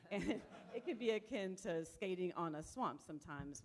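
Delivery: chuckling at the swamp joke; amused, half-laughing. Real, not acted. Joking about the ice rink.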